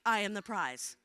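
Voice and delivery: low, sincere affirmation; like you mean it. Shown as a demonstration. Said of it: "Say it like you mean it".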